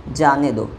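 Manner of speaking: "जाने दो" set apart as its own falling phrase; separate closing phrase. Shown as a demonstration. Teacher completing the comma example, "जाने दो" said apart. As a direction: land "जाने दो" firmly after the break. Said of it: "यहाँ है मत के बाद में".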